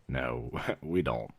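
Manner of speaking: slow no broken by a laugh; laughing denial. Acted. Clerk laughs off the vampires sparkle myth. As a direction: chuckle it off amused.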